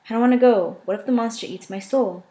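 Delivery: put-on small scared voice of a cowering child; childlike fear. Jasmine begs Vale not to send her back, childlike and scared. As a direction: plead like a frightened little kid. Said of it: "I sounded like a three-year-old cowering".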